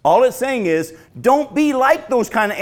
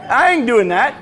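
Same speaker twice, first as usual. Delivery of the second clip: laughing refusal; 3 semitones higher, 5 dB louder than usual. Pretend. Imagined parent, laughing.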